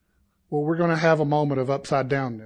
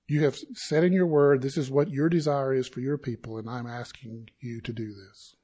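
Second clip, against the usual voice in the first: humble request. Shown as a demonstration. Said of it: "That's not insisting in our own way".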